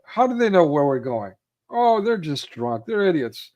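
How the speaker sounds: acted-out brush-off; dismissive. Acts Steve Martin dismissing the warning.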